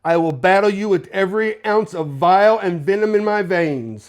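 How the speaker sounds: lightly voiced posh British threat; measured posh British villain promo; posh British accent. Regal vows to battle Triple H, posh British accent. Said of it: "in his posh British accent".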